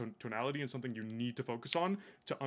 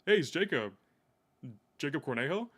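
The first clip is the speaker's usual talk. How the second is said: friendly louder self-introduction; upbeat familiar intro; 5 dB louder than usual. Shown as a demonstration. Cold caller Jacob introducing himself to the prospect, upbeat. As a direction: say your name like they should know you. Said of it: "the way I did it".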